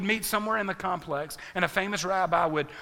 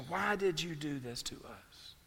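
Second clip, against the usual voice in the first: quiet, softer reproach; softer retelling; 6 dB quieter than usual. Retold or imitated. Preacher repeating Mary's words to the congregation, quiet and soft. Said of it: "That's Mary's very real reaction".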